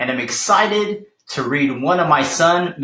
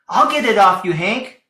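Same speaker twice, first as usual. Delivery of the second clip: shouted; 4 semitones higher, 4 dB louder than usual. Acted. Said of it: "she shouted".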